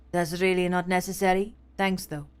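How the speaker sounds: tired detective, lightly voiced; a hint of a cold, worn-out cop; dragging voice. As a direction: let the words drag, weary. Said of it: "His voice drags".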